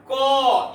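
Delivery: "को" drawn out so the ending vowel is heard; consonant pronunciation demo. Shown as a demonstration. Teacher showing students that a consonant needs a vowel, drawn-out demo. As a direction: stretch the vowel at the end of "को". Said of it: "अंत में अ का उच्चारण हो रहा है".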